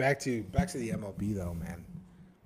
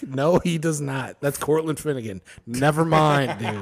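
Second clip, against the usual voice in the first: mock panicked correction; 2 semitones higher, 6 dB louder than usual. Mocking the player's realization.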